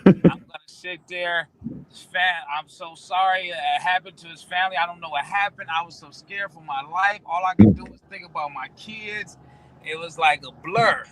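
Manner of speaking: lightly acted shaken victim; mock victim. Lavish acting out a fake victim for police, mildly shaken. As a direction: play the innocent witness, half-hearted. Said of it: "I'm gonna straight be the victim".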